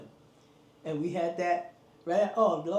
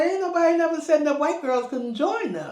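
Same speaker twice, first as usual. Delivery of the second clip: loud and high, firmly insisting; indignant principal; 9 semitones higher, 7 dB louder than usual. Retold or imitated. Principal answers PTA parents, loud and high. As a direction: principal defends the club, voice raised. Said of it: "He said".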